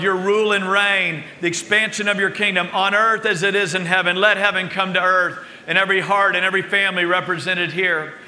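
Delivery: earnest pastoral prayer over the room; public prayer. Acted. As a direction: pray aloud for the congregation, steady and fervent.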